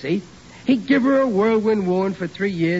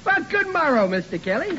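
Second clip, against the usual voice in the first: mock posh greeting; 9 semitones higher than usual. Riley mocks high-society greeting.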